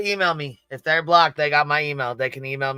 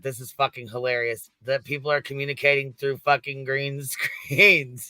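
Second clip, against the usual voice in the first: laughing. Real, not acted. Mocking the conspiracy theory.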